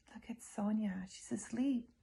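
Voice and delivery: put-on soft secret whisper for a sleeping child; hushed whisper. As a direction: whisper so nobody wakes up. Children asleep in the story.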